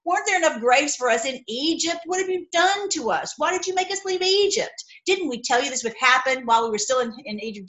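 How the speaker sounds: mock the grumbling people; complaining Israelites. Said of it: "they cried out to the Lord".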